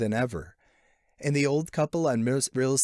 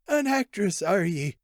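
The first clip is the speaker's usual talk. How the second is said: put-on a much higher, wondering old man; old man surprised; 7 semitones higher than usual. A narrator's reading. Old invalid discovers his reader is an actress, amazed. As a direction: lift it high, old man amazed at the news.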